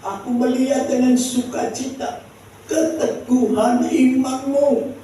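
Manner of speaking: high, ringing scripture quote; quoting Paul. Retold or imitated. Preacher repeating Paul's words to the church, proclaiming. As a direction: proclaim it high, drawing out the ending. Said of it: "kata Paulus".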